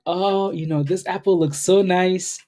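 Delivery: mock-dreamy Eve, cooing over fruit; tempted Eve. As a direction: swoon over the tempting apple, drawing it out. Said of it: "and then Eve was like".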